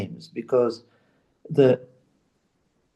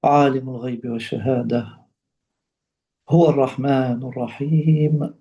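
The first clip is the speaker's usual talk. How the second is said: slightly lowered, level reciting voice; Quranic recitation; faster than usual. Acted. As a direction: recite the verse solemnly, pausing after each phrase. Recites Quran verses in Arabic.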